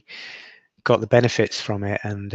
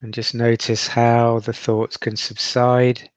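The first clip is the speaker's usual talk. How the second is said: guided meditation. Acted.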